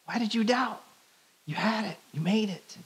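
high-pitched, pleading disbelief; incredulous letdown. Pretend. Imagined Jesus to Peter just after catching him, incredulous. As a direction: protest it like a let-down coach.

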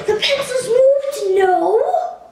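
high, loud, drawn-out astonishment; spooked, can't believe it; shocked disbelief. Pretend. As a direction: exclaim in hammed-up shock. Startled as pencils seem to move.

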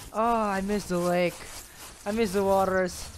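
usual speaking voice

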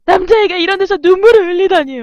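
hammed-up wailing mother, high and loud; mock crying. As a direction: imitate a mother lamenting through fake tears. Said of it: "같이 울면 또 엄마는 그럴 것 같아요".

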